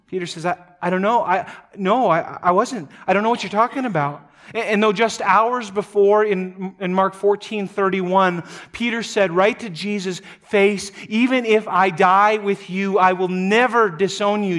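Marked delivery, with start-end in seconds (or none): 0.5-4.3 stammering, rushing, raised and fast; flustered denial. Acted. 11.1-14.6 emphatic vow. Acted. Peter's vow to Jesus' face.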